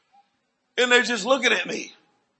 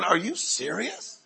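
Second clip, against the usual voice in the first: slow, softer, rising sharply at the end; incredulous question; 7 dB quieter, slower than usual. Retold or imitated. Preacher watching the boy walk, hushed disbelief. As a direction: draw it out in quiet disbelief. Acting his disbelief at the miracle.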